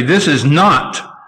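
slow, emphatic stress on "not". Retold or imitated. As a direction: quote it firmly, drawing out "This is not". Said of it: "Paul at the end of verse twenty says emphatically".

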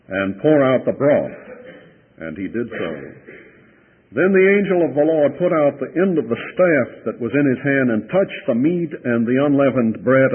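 solemn Bible reading; scripture reading. Acted. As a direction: read the passage to the congregation. Preacher reads scripture aloud.

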